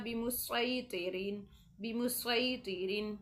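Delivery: बिमुसैतिरीन slow, with a thick, heavy s; बिमुसैतिरीन with an emphatic s; heavy sad. Shown as a demonstration. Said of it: "सिर्फ स्वाद ही पढ़ना है".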